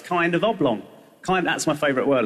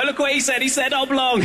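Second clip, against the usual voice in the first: mocking tattle; 8 semitones higher than usual.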